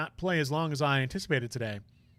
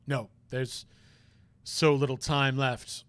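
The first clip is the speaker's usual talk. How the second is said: troubled prosecutor; 3 semitones lower than usual. Acted. Voices troubled prosecutor character.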